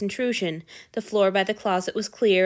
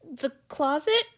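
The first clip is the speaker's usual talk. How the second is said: blurted; 8 semitones higher, slower than usual. A narrator's reading. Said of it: "Hanyu blurted".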